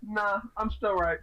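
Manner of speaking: slow, teasing insistence; joking stubbornness. Retold or imitated. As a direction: playfully refuse to concede. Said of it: "I do that jokingly".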